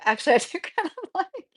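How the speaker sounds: quick giggling confession; sheepish laughing backtrack; laughing admission. Real, not acted. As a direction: laugh as you take it back. Admits she likes outdoor cat.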